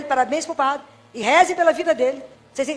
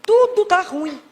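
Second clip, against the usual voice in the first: higher, whining "Tudo tá ruim"; a higher, moaning "Tudo tá ruim"; mock whiny complaint; 4 semitones higher, much slower than usual. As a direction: whine it like a chronic complainer.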